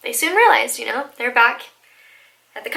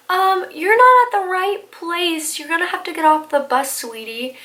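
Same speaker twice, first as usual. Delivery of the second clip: put-on old man voice; 5 semitones higher than usual. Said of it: "he's like".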